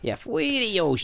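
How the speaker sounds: high, far-off dog voice; cartoon dog. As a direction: copy the dog's squeaky plea. Mimics the dog voice.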